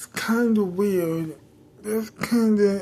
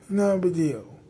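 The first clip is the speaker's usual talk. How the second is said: snappy. Acted. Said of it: "someone is getting snappy".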